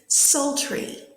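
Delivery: "sultry" repeated carefully as a clear model; model pronunciation. Shown as a demonstration. Teacher says the word for students to repeat, careful pronunciation. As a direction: say "sultry" distinctly for learners to echo. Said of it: "I'm gonna say the word".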